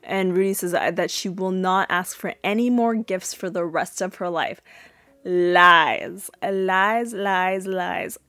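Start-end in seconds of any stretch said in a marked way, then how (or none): 5.2-8.2 mock chant of lies, fading out; calling her bluff with a teasing chant. Real, not acted. To Rudy on screen, a teasing chant of lies. Mocking Rudy's promise.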